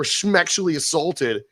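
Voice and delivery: slow, cutesy "schmexually assaulted" with the "schm" drawn out; mocking baby talk. Griping about grown men online, slow mock baby talk. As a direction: sneer at the euphemism by saying it slowly. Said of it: "If I hear one more dude say".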